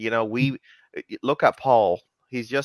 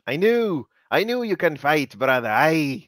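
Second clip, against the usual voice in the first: lightly voiced Scottish brawler, ending in a shouted Aye; hint of a Scottish fighter rallying his brother; a mild mock Scottish accent; 3 semitones higher, 3 dB louder than usual.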